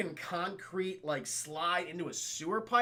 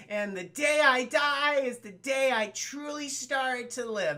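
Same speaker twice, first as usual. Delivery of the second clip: lightly dramatic movie line; 5 semitones higher, slower than usual. Retold or imitated. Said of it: "where she says".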